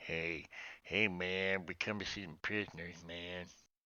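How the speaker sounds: slightly deepened voice. A player disguises their character's voice to sound like someone else, slightly deepened voice. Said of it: "I'll just deepen it a little bit".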